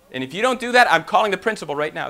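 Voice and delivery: mock warning, high and loud at first; threatening teacher. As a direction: lay down a lightly acted ultimatum. Teacher threatens to call principal.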